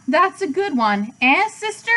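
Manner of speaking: hearty pig. A narrator's reading. Uncle jokes with Charlotte.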